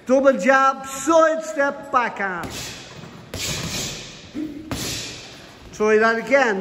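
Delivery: boxing coach calling combos. Acted. Calls combos throughout.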